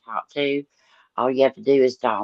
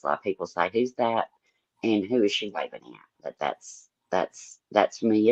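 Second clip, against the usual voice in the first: deep pitch shifted; 5 semitones lower, 4 dB quieter than usual. Pretend. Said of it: "I'm just using a voice changer".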